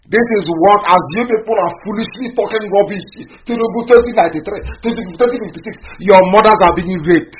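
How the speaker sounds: loud, rising, furious appeal to his listeners; angry shouting. Real, not acted. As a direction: shout it at them, demanding they listen.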